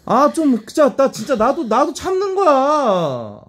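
high, loud, slow exasperated pleading; flustered protest. Real, not acted. (당황해서 다급하게 항의하듯)

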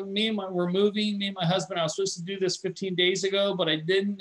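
a hint of a harried mom explaining; berated mother. Hacker posing as berated mother to tech support, lightly flustered. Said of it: "fakes like she's a berated mother".

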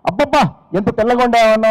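hammed-up delight, "అబ్బబ్బా" stretched high; mock gushing praise. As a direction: gush over the rice like a clumsy husband. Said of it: "ఎలా అభినందిస్తున్నాడు చూడండి". (అతిగా పొగిడే నటన)

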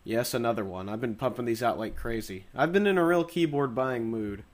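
nasal voice from the flu; stuffy nose, getting over flu. Real, not acted. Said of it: "excuse my nasally voice".

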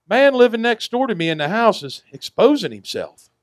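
lightly voiced old island woman, complaining; old woman's voice. Old woman reports neighbor.

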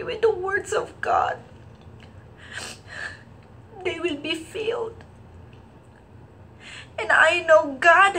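choked-up, high crying voice with halting pauses; real crying. Real, not acted. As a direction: fight through real tears, pausing to recover. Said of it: "And now I'm crying".

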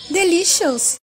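loud, drawn-out chef's verdict; mock chef verdict. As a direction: savor the word like a TV chef. (chef caricato saboreando)

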